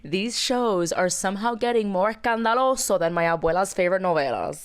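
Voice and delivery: upbeat co-host sponsor plug; lively promo read; scripted podcast ad read. Acted. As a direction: sell the show with polished enthusiasm. Sponsor ad read by both hosts.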